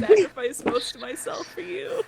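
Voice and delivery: whisper. Acted. Chill Wolf player voices loyalty.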